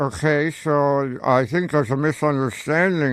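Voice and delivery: slow, put-on grown-up father voice; a kid faking his own dad, drawn out and slow; hammed-up fake father, slow and deliberate. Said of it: "I am your father".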